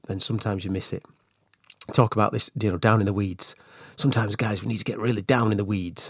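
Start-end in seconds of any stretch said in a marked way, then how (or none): 4.0-6.1 lightly put-on American accent. Podcast host joking to managers about the weeds, slight American accent. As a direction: slip briefly into a hint of American. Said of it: "did an American accent there".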